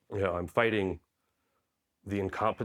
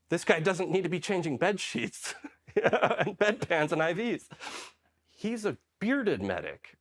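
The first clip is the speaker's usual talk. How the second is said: higher, slow, laughing through it; higher, slower mock-nurse voice with a laugh; 10 semitones higher, slower than usual. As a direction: announce it with an amused laugh. Nurse telling charge nurse.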